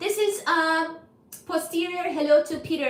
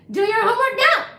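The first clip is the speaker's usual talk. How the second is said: mock scolding; 7 semitones higher, 8 dB louder than usual.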